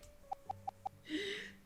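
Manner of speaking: voiceless mock sobs; fake sobbing. Player acting out bursting tears, fake sobbing. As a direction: fake a breathy crying fit. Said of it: "I'm doing this fakely".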